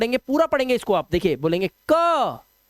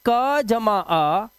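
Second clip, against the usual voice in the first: slow sound sum; much slower than usual. Shown as a demonstration. Teacher slowly building the sound for students. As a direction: say "क जमा अ" very slowly, spacing out each part. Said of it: "यानी कि ये क्या है".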